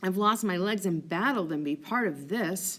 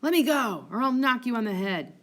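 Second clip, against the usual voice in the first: loud, angry threat; 4 semitones higher, 4 dB louder than usual. Acted. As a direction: snap it out as a threat. Drunk Cassio threatening Montano.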